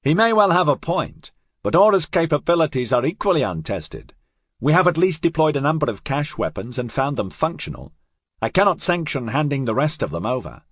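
thin, metallic robot captain voice; tinny voice. Acted. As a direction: speak tinny, like through a small speaker. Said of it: "in his tinny voice".

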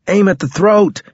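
high-pitched, urgent command; called-out battle order. A narrator's reading. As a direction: call it out high over the fighting.

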